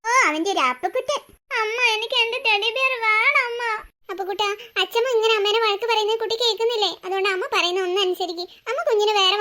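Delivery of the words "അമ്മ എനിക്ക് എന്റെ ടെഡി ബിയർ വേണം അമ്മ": tearful plea. Acted. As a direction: plead for it like an upset little child. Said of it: "അവൻ കരയുന്ന കണ്ടില്ല അമ്മ".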